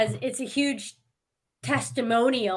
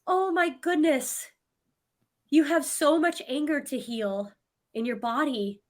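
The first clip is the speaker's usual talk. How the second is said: compassionate reply; 4 semitones higher than usual. Retold or imitated. Retelling her reply to an angry stranger, compassionate. Retold calm reply to insult.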